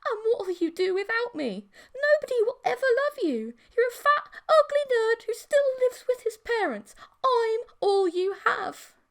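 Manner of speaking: high, loud, strange sneering monster voice; cruel monster taunt. Acted. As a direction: cut him down with every word. Monster girlfriend taunting him cruelly.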